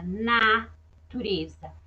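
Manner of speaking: natureza drawn out slowly, each syllable clear; teacher repeating natureza slowly for the class. Shown as a demonstration. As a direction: stretch natureza so the N is heard. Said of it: "letra N de natureza".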